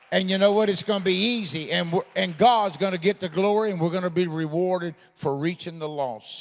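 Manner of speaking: loud, building preacher's call; rousing preaching. Acted. Pastor rallies West Bank church about outreach, preaching loud. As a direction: fire up the church with it.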